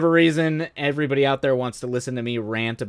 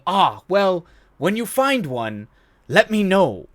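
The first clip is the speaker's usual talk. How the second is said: dry professor retort; 7 semitones higher, slower than usual. Retold or imitated. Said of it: "him going".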